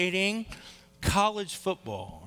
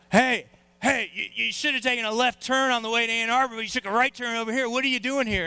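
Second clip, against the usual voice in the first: taunting fan; 4 semitones higher than usual. Retold or imitated. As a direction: jeer at the lost stranger, raised voice. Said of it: "some of them were like this".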